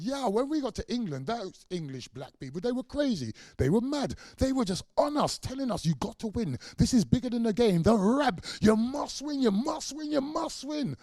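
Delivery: loud, high, rising chant of must win; excited urging. Retold or imitated. Cricketers quoting fans urging.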